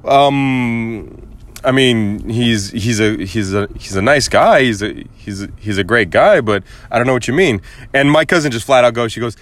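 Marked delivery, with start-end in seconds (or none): 0.0-7.6 halting, hesitant imitation of a friend; retold puzzled stammer; confused. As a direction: fumble for a polite answer. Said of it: "she was kinda confused by it".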